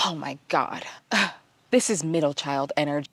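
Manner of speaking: exasperated inner voice, with a sigh; retold silent exasperation; judgmental. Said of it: "I was just being so judgmental".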